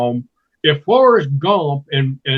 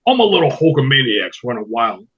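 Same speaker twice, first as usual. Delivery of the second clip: Hulk Hogan; 3 semitones lower than usual. Retold or imitated. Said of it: "I do Hulk Hogan".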